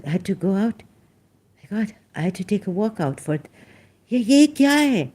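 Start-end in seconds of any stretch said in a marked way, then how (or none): 4.1-5.1 exclaiming. Real, not acted. Exclaiming in disbelief.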